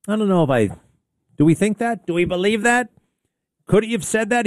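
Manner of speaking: high, disbelieving questions; incredulous. Real, not acted. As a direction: voice rising in disbelief at the claim.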